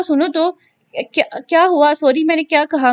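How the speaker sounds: panicked husband begging his wife to stop; alarmed pleading. Acted. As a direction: beg her to stop while ducking. Husband dodging thrown objects.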